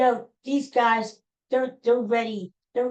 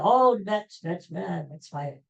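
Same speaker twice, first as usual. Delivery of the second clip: mocking hype. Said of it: "And the media".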